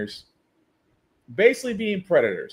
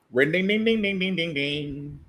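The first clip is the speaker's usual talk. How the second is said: imitated ringing; 2 semitones lower, 3 dB quieter than usual. Imitates circling ringing noise.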